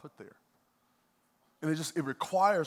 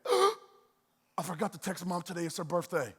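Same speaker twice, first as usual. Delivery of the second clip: mock panic; 3 semitones higher, 3 dB louder than usual. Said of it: "laying down at night and went".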